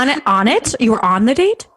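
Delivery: real astonished double-take question; incredulous. Real, not acted. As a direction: hit ON hard in disbelief, voice rising at the end. Astonished follow-up question to story.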